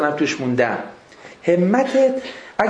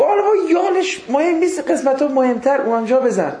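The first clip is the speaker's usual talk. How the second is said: raised, higher voice calling out the lines of the tattoo story; retold shouting; 7 semitones higher than usual.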